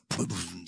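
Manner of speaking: low, soft mimicked plop; imitated thud. Shown as a demonstration. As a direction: sound out a heavy flop. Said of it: "då blumsade han ner så här".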